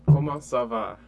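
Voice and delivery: loud, deliberate Comment ça va; slow teaching prompt. Shown as a demonstration. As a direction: say Comment ça va clearly for the learner. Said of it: "What am I asking you?".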